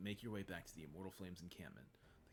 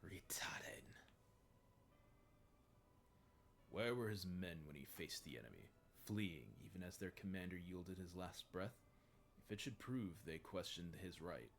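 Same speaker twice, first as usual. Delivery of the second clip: cold commander voice. Acted.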